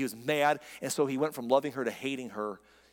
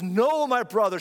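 retold cry; 6 semitones higher, 6 dB louder than usual. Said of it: "she cried".

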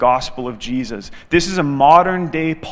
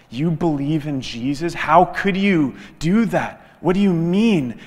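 shocked disbelief. Retold or imitated. Atheist to his friend who believes in Jesus, shocked disbelief. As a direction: retell a stunned man's questions. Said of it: "His jaw drops".

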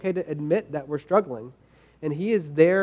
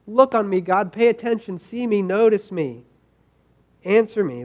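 a mild retold plea, pitched higher; crying out to God; 4 semitones higher than usual. Pastor retelling the psalmist begging God, mild pleading cry. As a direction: voice the psalmist's cry as a moderate appeal. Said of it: "he cries out".

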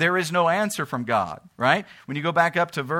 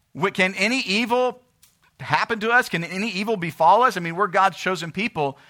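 higher-pitched indignant questioning; acted incredulity; 5 semitones higher than usual. Preacher voices God's chosen people doubting evil, incredulous. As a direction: pitch it up as if it were unthinkable. Voicing Israel's incredulous complaint.

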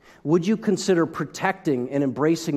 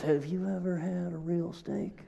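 incredulous inner thought; 2 semitones higher, 10 dB quieter than usual. Retold or imitated. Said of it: "you're thinking to yourself".

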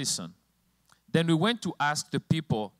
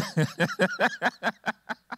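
real laughter; 10 semitones higher than usual. Real, not acted. Laughs at slow computer.

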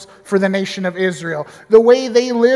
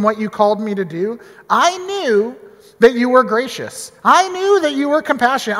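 shouting at God; 2 semitones higher than usual. Retold or imitated. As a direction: throw it back in God's face. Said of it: "starts kinda shouting at God".

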